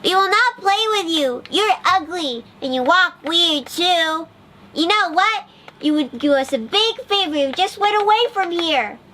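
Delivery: high, bratty duckling voice; duckling chasing the ugly duckling off; mocking duckling. A narrator's reading. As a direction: push him away with scorn. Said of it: "the yellow duckling shouted".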